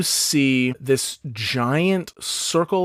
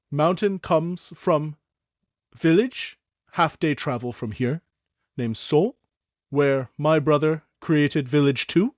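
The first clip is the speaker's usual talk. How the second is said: elder goblin Thook; 3 semitones higher than usual. Acted. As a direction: greet the young ones as a gentle goblin elder. Thook voice continues.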